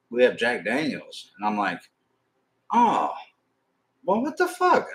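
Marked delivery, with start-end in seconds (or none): 0.1-1.3 waitress voice. Retold or imitated. Waitress voiced in retold story. 2.7-4.9 much higher, squeaky mock disbelief; mock shock. Retold shocked reaction.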